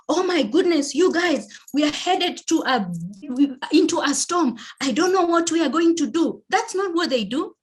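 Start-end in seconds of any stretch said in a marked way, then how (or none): 0.1-6.4 high, flustered, alarmed voice; a captain losing it over the intercom; panicky captain. Retold or imitated. Captain announcing a storm to passengers in a panic. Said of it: "captain would be like".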